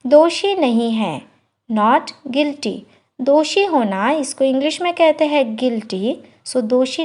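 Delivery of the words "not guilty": slow, careful model phrase; slow teacher demo of the English. Shown as a demonstration. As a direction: spell it out slowly for learners. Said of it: "slow model phrase".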